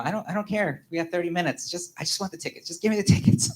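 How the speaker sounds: lightly acted urgent insisting; retold insistence. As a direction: plead impatiently for the tickets. Retold insisting at ticket window.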